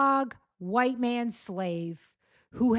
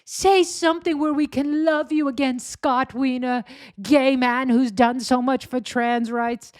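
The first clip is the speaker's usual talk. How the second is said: mock pleading; 3 semitones higher, 3 dB louder than usual. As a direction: beg him like a hurt fan. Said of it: "he's, like, pleading with him".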